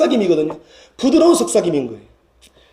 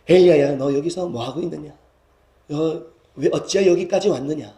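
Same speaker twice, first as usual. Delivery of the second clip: gentle, consoling divine voice; hushed comforting. Acted. God as parent to crying child, gently comforting. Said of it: "속삭이며 안아주고 위로하고".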